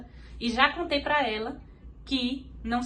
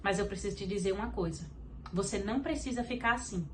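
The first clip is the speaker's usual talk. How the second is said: softer, calm and reassuring; gentle divine voice; 3 semitones lower, 5 dB quieter than usual. Retold or imitated. The Holy Spirit comforting her in the car, softly reassuring. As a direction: speak as a comforting, tender presence. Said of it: "o Espírito Santo falou comigo assim".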